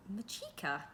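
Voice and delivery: a puzzled echo of a stranger's name; puzzled repeat. Acted. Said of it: "he repeated, puzzled".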